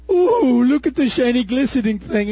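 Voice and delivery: mock bug thrilled by a shiny thing. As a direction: squeal like a bug spotting something shiny. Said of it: "the bug goes".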